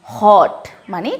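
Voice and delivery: হট with a short অ vowel, said slowly; English word pronunciation. Shown as a demonstration. Teacher modelling hot for the class, slow and clear. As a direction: say হট clipped on the অ. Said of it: "অ এর মতো হচ্ছে".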